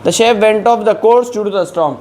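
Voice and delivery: reads the English example very slowly; slow dictation. Shown as a demonstration. Teacher to Hindi-speaking learners, slow dictation pace. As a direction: give every word its own space.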